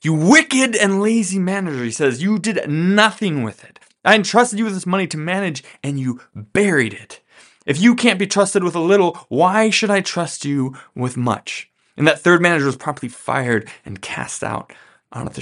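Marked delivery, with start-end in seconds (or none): 0.0-1.8 higher-pitched, mildly angry scolding; understated acted anger, pitched up; mock fury. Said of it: "the owner is furious". 2.2-11.7 higher-pitched scolding, stretched key words; mildly outraged boss reprimanding an employee; understated acted indignation; mock fury. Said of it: "the owner is furious".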